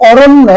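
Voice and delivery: অরণ্য said as ɔronno, a doubled n; pronunciation demo. Shown as a demonstration. Teacher models অরণ্য for exam students, clear pronunciation demo. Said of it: "আমরা এই শব্দের উচ্চারণ কিভাবে বলি".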